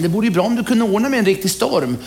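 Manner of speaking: lightly voiced eager groom; groom's wish. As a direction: ask for it a bit sheepishly. Groom makes his wish.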